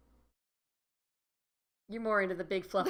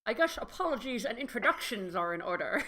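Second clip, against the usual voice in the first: a light, bad Scottish accent on the cat pilot; half-hearted Scottish brogue; mild Scottish lilt, just a hint. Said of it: "Can you do a Scottish accent?".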